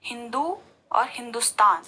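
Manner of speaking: हिंदू with a strong long दू, then हिंदुस्तान with a light short दु; teacher contrasting हिंदू and हिंदुस्तान by stress on द. Shown as a demonstration. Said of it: "तो आप उच्चारण देखिए किस तरह से होता है".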